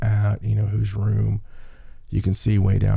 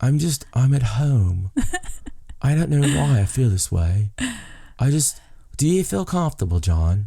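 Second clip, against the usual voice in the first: higher British-accented mimicry of wife; 4 semitones higher than usual. Husband mimicking his wife in old haunted places, British accent. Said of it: "the terrible British accent".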